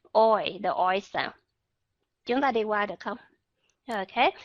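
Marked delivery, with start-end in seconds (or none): 0.1-1.3 "Oi" said slowly, lower, gliding o to i; slow demo of oi. Shown as a demonstration. Teacher modelling oi in English. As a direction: draw "oi" out low and slow. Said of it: "Âm này hầu như người Việt Nam".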